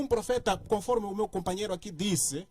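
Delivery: loud, forceful debating delivery. Real, not acted. Debater rebutting a companion's claim about prophets, loudly. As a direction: speak up forcefully, almost shouting the argument. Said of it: "desculpa, eu falo a gritar".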